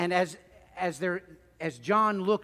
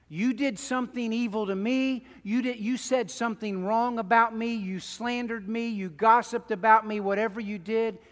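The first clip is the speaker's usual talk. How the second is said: voiced grievance; 4 semitones higher, 5 dB louder than usual. Preacher voicing a wronged person.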